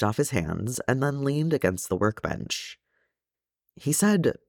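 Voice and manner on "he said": high-pitched, tentative start; hesitant. A narrator's reading. Nephew starts to tell his uncle, hesitant. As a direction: begin high, then hold back. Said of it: "Feely hesitated".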